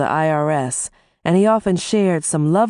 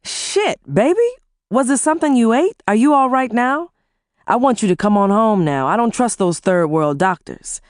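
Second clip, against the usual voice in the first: husband's voice, higher and urgent; worried husband pressing for answers; alarmed husband; 7 semitones higher than usual. Acted. Husband alarmed that his wife is ill, urgent.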